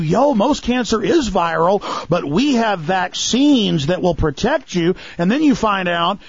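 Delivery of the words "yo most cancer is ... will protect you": mocking teacher tone. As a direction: parody how they now teach it, slowly. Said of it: "Now they're teaching you".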